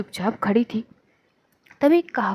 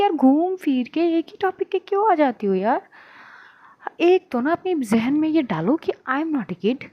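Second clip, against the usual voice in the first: irritated outburst; 5 semitones higher than usual. Acted. Adhya snaps at Kavya.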